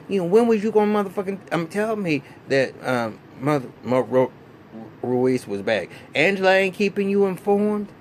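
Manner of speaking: hammed-up outrage at the client; retold furious call. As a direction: play the lawyer going off on Ghost over the phone. Lawyer calls Ghost, furious about Ruiz.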